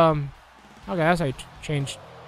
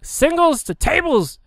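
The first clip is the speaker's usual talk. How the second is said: slow, drawn-out hype announcement; slow hype call; 7 semitones higher, slower than usual. Real, not acted. Gamer to viewers, hyping the match, slow drawn-out call. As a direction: stretch it like a ring announcer.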